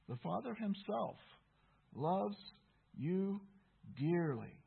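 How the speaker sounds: "loves", "you", "dearly" each set apart by pauses; measured repeat, letting "dearly" fall; deliberate emphasis. Real, not acted. Repeats verse word by word.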